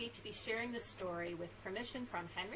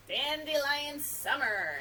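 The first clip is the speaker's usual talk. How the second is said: story title; 4 semitones higher, 9 dB louder, much slower than usual. Real, not acted. Reads the book title.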